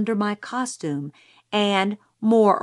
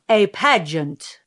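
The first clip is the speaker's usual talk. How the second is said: declaiming; slower than usual. A narrator's reading. Pageant speaker declaiming at lectern.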